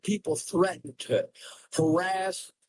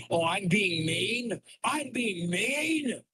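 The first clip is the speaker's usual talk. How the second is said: sarcastic mock; 4 semitones higher, slower than usual. Real, not acted. Mocking chat's objection.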